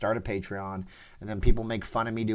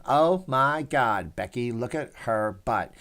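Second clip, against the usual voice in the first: quoted song-intro voice; slower than usual. Retold or imitated.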